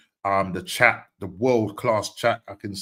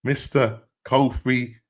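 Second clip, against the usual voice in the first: slow, drawn-out guest introduction; announcer intro; much slower than usual. Real, not acted. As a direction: stretch the names out like an announcer, pausing between them.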